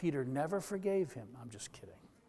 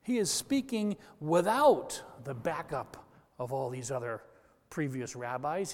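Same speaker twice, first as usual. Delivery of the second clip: normal talking voice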